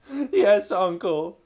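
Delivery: high, tearful reply; sobbing. Acted. Caspian answering his uncle through tears. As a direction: choke out a sob of a yes. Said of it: "sobbed Caspian".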